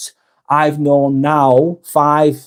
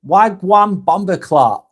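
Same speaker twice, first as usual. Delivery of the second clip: a clumsy try at Jamaican patois, slower; attempted Jamaican slang; 4 semitones higher, slower than usual. Shown as a demonstration. Jamaican patois said badly. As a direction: streamer tries a Jamaican greeting for a viewer, awkward patois. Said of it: "I can't say that well".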